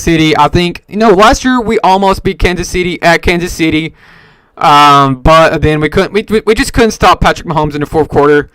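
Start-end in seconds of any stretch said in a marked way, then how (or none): 6.1-8.5 talking through the hiccups; words broken by a hiccup. Real, not acted. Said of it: "Excuse me, I got the hiccups".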